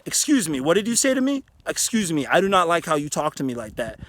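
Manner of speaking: firm, controlled confrontation; calm but firm assertive tone. Shown as a demonstration. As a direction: stand your ground without yelling. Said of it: "assertive, mature manner".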